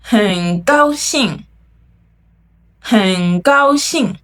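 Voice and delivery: 很高兴 drawn out slowly, each tone clear; slow syllable by syllable. Shown as a demonstration. Teacher modelling 很高兴 slowly for learners to repeat. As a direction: spell out 很高兴 slowly so students can copy. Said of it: "很 means".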